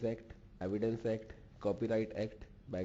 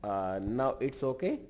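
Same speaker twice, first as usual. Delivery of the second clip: raised voice, calling into a bad line; calling out loud; 5 semitones higher, 6 dB louder than usual. Real, not acted. Lecturer on a bad call, calling out loudly to Larry. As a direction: call out so the far end can hear.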